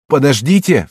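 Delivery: громкий высокий вскрик; крикни, чтобы остановить меч. Acted. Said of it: "вскричал Синдзабура". (громкий отчаянный вскрик)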